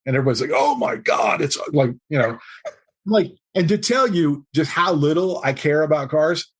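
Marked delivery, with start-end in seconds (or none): 0.5-1.4 high, thrilled oh my God; a mock-thrilled crowd; excited gasp. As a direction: gush like car lovers. Room reacts to the car.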